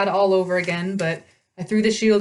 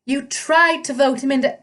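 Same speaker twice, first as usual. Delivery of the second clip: high, satyr-voiced misread; wrong voice for Percy's line; satyr voice by mistake; 6 semitones higher than usual. A narrator's reading.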